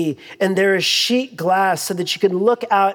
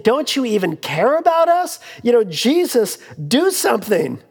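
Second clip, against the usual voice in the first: desperate plea; 3 semitones higher than usual. Retold or imitated. Panicked disciples cry to Jesus.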